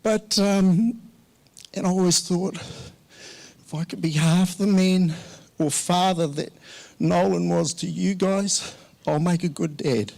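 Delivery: grieving son-in-law thanking the family, near tears; fighting back tears. Real, not acted. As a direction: push through a lump in the throat. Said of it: "Excuse me".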